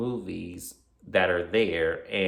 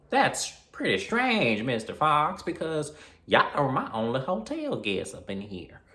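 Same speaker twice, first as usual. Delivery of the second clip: motel manager; 6 semitones higher than usual. Retold or imitated.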